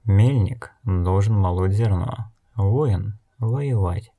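measured, unruffled listing with pauses; unperturbed. Acted. Blind woman tells the elder each has a job, unperturbed. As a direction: state each point calmly and evenly. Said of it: "невозмутимо отметила Нелти".

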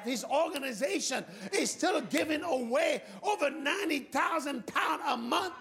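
forceful testimony from the pulpit; impassioned preaching. Real, not acted. Preacher telling of one man's faith, impassioned preaching. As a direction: preach the story with mounting amazement.

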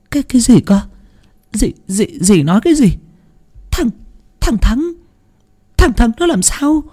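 high, stammering, trembling disbelief. A narrator's reading. Mother hearing her son is dead, trembling high stammer. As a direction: stammer it out, shaking with dread. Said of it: "giọng run rẩy".

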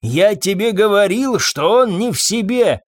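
shouting. A narrator's reading. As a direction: hurl it at his wife. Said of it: "кричал Фабьен".

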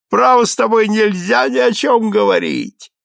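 excited, tipsy count pleading with his friend. A narrator's reading. Граф говорит пьяно, восторженно. (восторженный подвыпивший граф)

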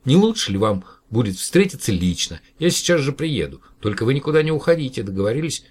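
sweet, hurrying persuasion; coaxing. Acted. Professor coaxes the alien to wait, gently coaxing. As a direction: coax him to stay put. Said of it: "заговорил ласковым голосом".

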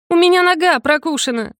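complain, outraged and hurt; indignant complaint. A narrator's reading. Student to master about the bite, indignant. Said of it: "возмутилась я".

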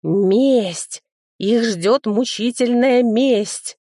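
high, slow, menacing vow of revenge; fairy swearing revenge on the thieves; vengeful fairy. Acted. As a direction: drag out мучительная with relish.

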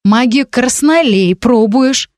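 "краснолей" drawn out slowly as something vile; disgusted stress on краснолей. A narrator's reading. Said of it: "выделив краснолей как что-то мерзкое". (выделить «краснолей» как что-то мерзкое)

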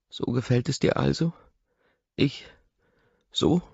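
hurt and angry, pitch climbing; furious. A narrator's reading. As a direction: throw the questions at him in rage. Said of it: "Sie ist wütend".

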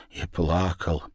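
plain reading voice

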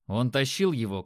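usual speaking voice

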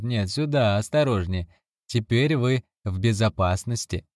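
a hint of an obliging native servant; lightly voiced servant. Narrator voices Babalachi.

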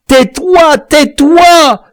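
loud, very high, furious command; furious hush. A narrator's reading. The killer silences the victim before the men hear, furious. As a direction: shout him into silence. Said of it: "cria le sang mêlé furieux".

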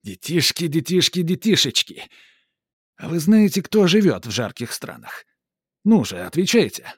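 put-on high, loud showman calling kids; a booming ringmaster; circus showman. Сарацин зазывает детей. (зазывала-конферансье)

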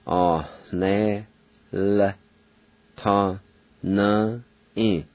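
Ah, ne, L, ta, na, i, with the I silent after the L; Cherokee pronunciation. Shown as a demonstration. Teacher showing the silent I and the H before the N. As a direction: sound out Ah, ne, L, ta, na, i syllable by syllable. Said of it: "Like this".

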